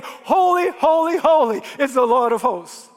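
lightly voiced angels crying holy; a hint of angels calling out in praise; angels' praise.

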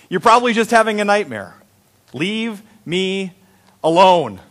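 exasperated, breaking up the last words; mock exasperation, word by word at the end; frustrated. Older guy who needs sleep dismisses the kid, frustrated. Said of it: "I'm getting a little frustrated too".

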